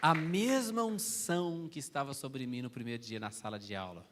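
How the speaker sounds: preacher voicing his son's amazed report, loud; excited retelling. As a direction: burst out with it, overwhelmed.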